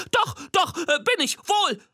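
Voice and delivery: high, hesitant squeaky monster voice; a tiny monster fibbing nervously; squeaky little monster. A narrator's reading. Little monster insists to Nina, squeaky and unsure. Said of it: "behauptet das Monster".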